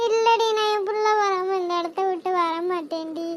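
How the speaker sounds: put-on a mother mourning her drowned child; grieving mother. Mother refuses to leave, weeping.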